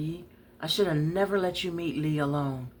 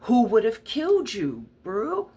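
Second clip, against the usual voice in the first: heated plea; 5 semitones higher, 7 dB louder than usual. Acted. Heated argument, defending the killing.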